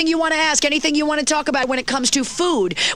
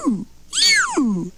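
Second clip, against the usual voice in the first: whale impression; 2 semitones higher than usual. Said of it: "my impression of a whale".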